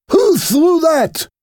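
high, slow angry demand. Acted. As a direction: demand it angrily, drawn out. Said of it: "getting angry".

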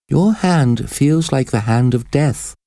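high-pitched, alarmed exclamation; exclaiming. A narrator's reading. Prisoner recoils from the priest's deathly hand, exclaiming. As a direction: exclaim it high, in mild shock. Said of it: "Esmeralda exclaimed".

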